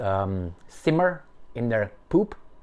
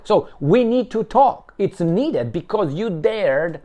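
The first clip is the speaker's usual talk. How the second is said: slow, drawn-out lecturing tone, louder; mock stern principal; 5 semitones higher, 3 dB louder, slower than usual. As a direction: talk down like a principal scolding a pupil. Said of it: "So that's how they talk".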